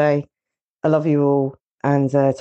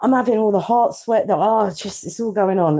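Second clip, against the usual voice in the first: nervous; 4 semitones higher than usual. Real, not acted. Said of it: "I'm really nervous".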